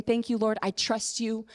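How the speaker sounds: hushed and grateful, close to crying; tearful thanks. Retold or imitated. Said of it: "Crying through the tears, saying".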